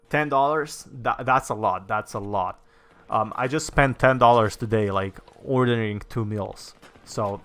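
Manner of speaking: ordinary talk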